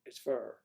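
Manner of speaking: "fur" rhyming with "her", meaning fire; Southern "fur", no long i; Deep South "fur" for fire. Shown as a demonstration. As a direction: say "fur" as one r-coloured syllable. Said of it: "if you see it ablazing".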